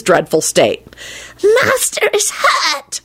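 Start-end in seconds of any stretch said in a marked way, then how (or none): 1.6-3.0 slow, high creaturely wail of delight; happy moaning. A narrator's reading. House-elf gloating over his injured master, happy high moan. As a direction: moan it with gleeful relish, drawn out. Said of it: "he moaned happily".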